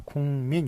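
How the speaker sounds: 국민 said as "궁민", ㄱ turned to ng; nasalized pronunciation. Shown as a demonstration. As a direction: say 국민 as "gung-min". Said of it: "발음 어떻게 됩니까".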